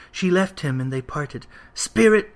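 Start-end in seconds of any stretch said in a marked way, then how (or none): 1.7-2.3 high, loud pleading call; anguished cry. A narrator's reading. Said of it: "cried Scrooge".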